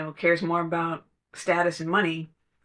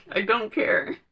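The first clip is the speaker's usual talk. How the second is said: laughing; 4 semitones higher than usual. Real, not acted.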